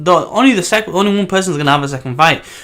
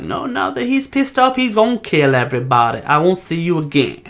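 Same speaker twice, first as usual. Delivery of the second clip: lightly put-on character voice, pitched up at the start; put-on Brandish voice; 3 semitones higher than usual. Reviewer mimicking Brandish's reaction to August's speech, put-on voice. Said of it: "I don't think she would say it in that voice".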